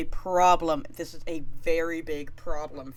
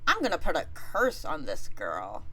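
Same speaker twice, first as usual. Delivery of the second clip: scheming Aphrodite; 5 dB louder than usual. Retold or imitated. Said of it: "And she's like".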